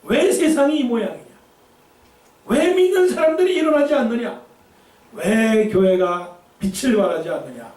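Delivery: high, indignant complaining questions; grumbling believer. Acted. Preacher mimics a believer blaming the world, indignant and high. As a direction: scold the world for its faults.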